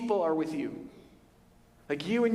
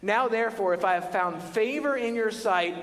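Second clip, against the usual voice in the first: higher, slow pleading prayer; Moses pleading; 6 semitones higher, slower than usual. Retold or imitated. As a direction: plead with God, drawing it out slowly. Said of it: "this is Moses".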